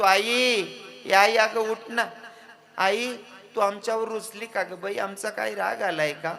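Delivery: loud pleading call to mother; calling out loudly. Acted. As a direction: call her loud and desperate. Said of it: "जोरात जोरात आईला आवाज देतो".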